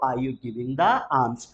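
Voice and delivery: very slow, alms without the L; slow model question. Shown as a demonstration. Teacher models the question and silent L, very slow. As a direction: spell it out slowly. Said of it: "So क्या आप भीख दे रहे हो".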